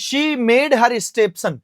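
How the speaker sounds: very slow, word by word; slow question read. Shown as a demonstration. Teacher reading an exam sentence slowly to students. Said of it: "reading the exam question".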